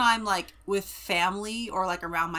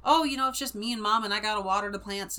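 put-on Central California accent; faster than usual. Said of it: "the Central California accent".

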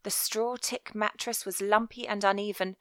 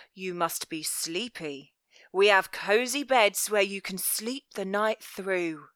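velvet voice. Acted. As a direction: lull them with false kindness. Velvet soothes the children.

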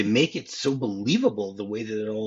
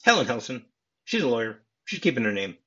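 imitating a deadpan reply; emotionless. Retelling Harry naming his fiancée to Sally, emotionless. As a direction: recite the facts without any feeling. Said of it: "it's a very emotionless response".

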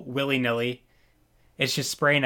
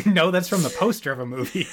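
chuckling through the line; laughing correction; 4 semitones higher than usual. Real, not acted. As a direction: laugh while you correct the quote. Correcting a quote while laughing.

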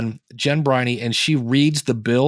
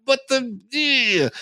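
incredulous; 12 semitones higher, much slower than usual. Retold or imitated. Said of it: "and you're like".

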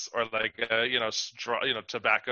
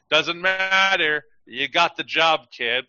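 lightly voiced casting director, higher and drawn out; 3 semitones higher, 3 dB louder, slower than usual. Casting director hiring an actor despite the bad accent, lightly mocking. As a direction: stretch it out, waving off the problem.

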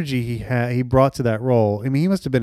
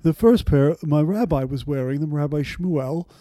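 Mamet voice. Retold or imitated. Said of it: "You got a really good Mamet there".

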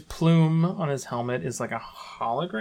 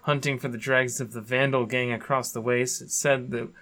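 dramatic lore reading. Acted. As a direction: read it like a movie trailer. Reads skin lore aloud.

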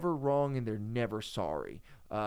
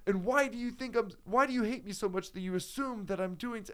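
high-pitched imitation of a tearful ex; mock crying; 10 semitones higher than usual. Ex-wife accusing husband of hating her, mock crying. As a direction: plead it in a raised, put-on wounded voice. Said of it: "just start crying and be like".

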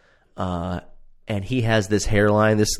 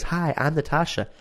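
mimicking; 7 semitones higher than usual. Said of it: "And she goes".

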